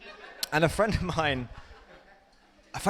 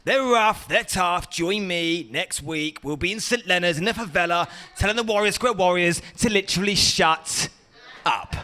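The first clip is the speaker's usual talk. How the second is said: Ross Kemp impression. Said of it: "Ross Kemp on Gangs".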